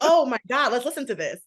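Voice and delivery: high, loud imitation of an impressed crowd; mock amazement. Imitating a crowd suddenly won over by a thin woman, mock amazement. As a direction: gush in exaggerated awe, pitched well up. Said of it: "then it's like".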